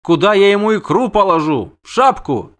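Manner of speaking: high-voiced complaining siren; indignant siren. Siren rejects the witcher's excuses, indignant.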